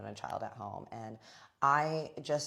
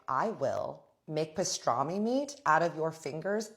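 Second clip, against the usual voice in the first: slow, emphatic, louder threat; acted threat; 3 semitones higher, 4 dB louder than usual. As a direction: lay down a warning, word by word. Acts out threatening the intruder.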